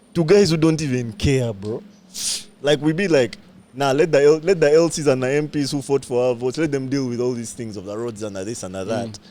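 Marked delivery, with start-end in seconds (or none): none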